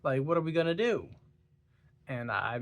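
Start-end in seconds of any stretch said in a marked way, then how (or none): 0.0-1.1 mock-panicked, higher and louder on the last lines; panicked women. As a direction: play the horrified wives, rising into disbelief. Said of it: "They're like".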